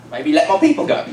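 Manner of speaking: casual, offhand request; casual ask. Retold or imitated. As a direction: ask it like a small favour. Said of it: "he probably didn't say it a lot like that".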